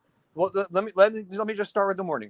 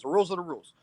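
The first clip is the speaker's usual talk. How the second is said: softer, settled restatement of rules; quiet conclusion; 5 dB quieter, much faster than usual. Real, not acted. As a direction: let it drop, case closed. Repeating the rule as a closer.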